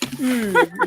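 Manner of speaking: Mm drawn out through a yawn. Real, not acted. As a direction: yawn while saying Mm. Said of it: "you can hear me yawning".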